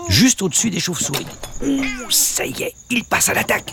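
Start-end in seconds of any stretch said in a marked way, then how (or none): 1.6-3.7 excited. Acted. Narrator sees the cat attack.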